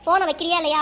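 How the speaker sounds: loud, mildly imitated scolding; stern brush-off. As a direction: mimic a son curtly telling off his sister. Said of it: "கராரா கூட பேசிடுவான்".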